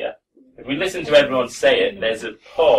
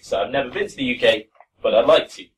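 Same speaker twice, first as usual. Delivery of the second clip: "I've never been to the U K" then a short break before "but I'd like to"; pause before but; faster than usual. Shown as a demonstration. Teacher modelling the natural pause for students, small break before "but". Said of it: "a natural place to have a little break".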